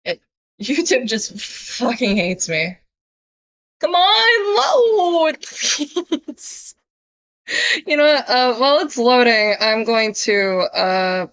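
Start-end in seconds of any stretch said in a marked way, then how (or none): 3.8-6.7 high, begging the stream to load; pleading with a machine. Real, not acted. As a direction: plead with the screen.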